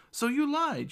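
high, loud accusation; accusing shout. A narrator's reading. Girl points her fork at the gnome, shouting. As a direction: shout it in high-pitched indignation. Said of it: "she shouts".

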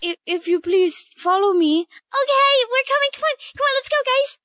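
high chirpy bird-woman voice. Acted. Bird guide leading the party to their rooms, high and chirpy. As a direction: squeak it out like a small bird creature. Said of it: "You sound like a bird".

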